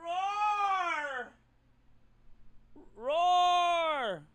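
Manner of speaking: playful fake dragon roaring. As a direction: roar like a dragon for the camera. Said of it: "Here, I'll do it".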